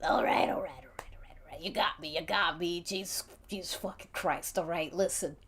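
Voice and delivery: defeated, then hushed all rights; caught out. Acted. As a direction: give up the lie reluctantly. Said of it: "Giggles is like".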